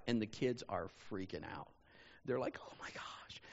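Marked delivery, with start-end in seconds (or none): 2.6-3.4 breathless whispered amazement; awed whisper. Retold or imitated. Kids seeing the carriage pull up, whispering in awe. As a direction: gasp it out in awe.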